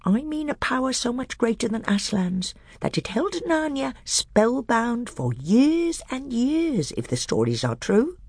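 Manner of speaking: high, sly dwarf voice pitched well up; a bitter dwarf testing the council; high, crafty dwarf; scheming dwarf. Acted.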